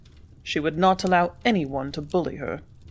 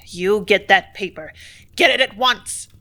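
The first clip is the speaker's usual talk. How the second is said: ugliest tone; 5 dB louder than usual. Acted. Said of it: "ordered Mayberry in his very ugliest tone".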